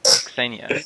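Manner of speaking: Xenia said ZEN-ya; Russian pronunciation. Shown as a demonstration. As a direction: say Xenia slowly with a short e. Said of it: "like the Russian Xenia".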